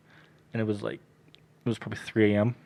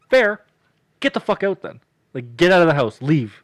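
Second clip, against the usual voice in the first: louder, higher, kicking him out; mock angry yell; 4 semitones higher, 7 dB louder than usual. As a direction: snap him out of the house, half-joking. Kicking the friend out.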